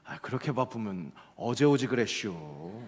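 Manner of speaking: blunt Chungcheong quip. Retold or imitated. Roadside banner teasing speeding drivers, blunt dry quip. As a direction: toss it off like a banner's sly dig at speeders. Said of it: "좀 퉁명스럽게 느껴지기도 하고".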